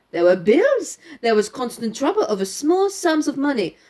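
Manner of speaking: lightly voiced French-accented detective; Poirot. Poirot laying out the girl's movements for his companion, lightly French-accented. Reads Poirot's explanation aloud.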